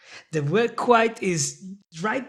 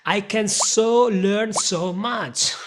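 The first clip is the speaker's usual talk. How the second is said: slow, louder mock-eager so; playful eagerness; 3 semitones higher, 3 dB louder than usual. Shown as a demonstration. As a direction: ham up how badly you want to click. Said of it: "playful examples continue".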